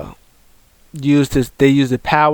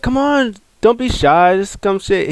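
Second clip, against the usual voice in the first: coaxing; 6 semitones higher than usual. Retold or imitated. Retold coaxing of a shy parrot.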